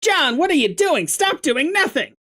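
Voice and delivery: a full Wallace Shawn take; Wallace Shawn impression. Shown as a demonstration. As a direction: do the little man from the movie. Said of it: "Wallace Shawn!".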